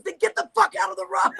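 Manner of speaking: high, loud order through laughter; urgent mock yell. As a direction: yell it as a retold urgent command. Friend urgently orders her off road.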